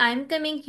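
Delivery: coming falls at the end; falling statement tune. Shown as a demonstration. Teacher recalling the statement example, falling tune. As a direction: drop the voice on coming. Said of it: "falling tone है at the end".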